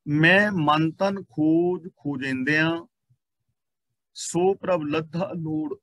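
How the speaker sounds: very slow, measured verse reading; scripture recitation. Real, not acted. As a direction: stretch each word of the sacred line. Reads scripture verse aloud.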